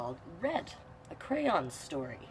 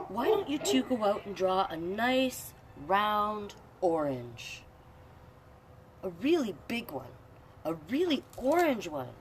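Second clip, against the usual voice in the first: a hint of a cheerful mom, higher and louder; mother voice; 6 semitones higher, 6 dB louder than usual. Mother sending the crayons outside, lightly voiced. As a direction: sell the idea sweetly.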